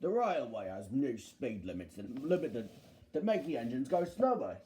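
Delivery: low, explaining bus character; Bulgy. Acted. Bulgy explaining speed limits to passengers, low-voiced. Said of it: "he explained to the passengers".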